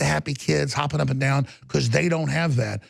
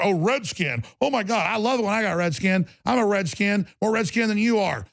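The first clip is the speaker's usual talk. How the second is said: higher, mocking sing-song voice; mild mocking higher voice of a preachy activist; mocking whine; 5 semitones higher than usual. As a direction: parody a self-righteous person showing off. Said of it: "Don't give me some political".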